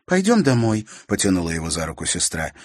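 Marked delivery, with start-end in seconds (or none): 0.1-0.9 higher, pleading tug; sister's urging. A narrator's reading. Sister pulling brother by the hand, urging. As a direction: coax him homeward.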